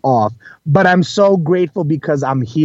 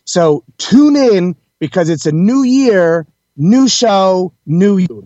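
higher, louder, slow punchy promo line; host pumping up listeners for the new year, excited; upbeat slogan; 5 semitones higher, 4 dB louder, slower than usual. Acted. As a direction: sell the new year like a jingle.

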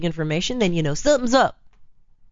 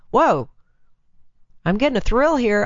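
higher-pitched mock thrill; thrilled woman; 4 semitones higher, 3 dB louder than usual. Woman pausing to consider her affair, mock thrilled. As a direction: play a woman surprised by a thrill.

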